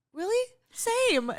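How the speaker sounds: giddy high-pitched really, same; excited same. Retold or imitated. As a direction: squeal it back to a fan. Mock excited agreement.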